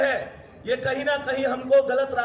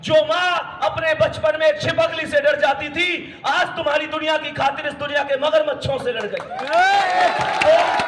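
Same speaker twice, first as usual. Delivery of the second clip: louder, rising moral rebuke to the students; impassioned scolding; 2 semitones higher, 4 dB louder than usual. Real, not acted. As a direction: shake them with a passionate rebuke. Scolding students about threatening mothers.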